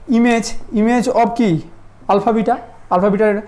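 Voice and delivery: "image of alpha beta" spoken slowly, word by word; slow careful naming. Shown as a demonstration. Teacher showing the class the other way to read it, slow and careful. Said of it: "এটাকে বলতে হয়".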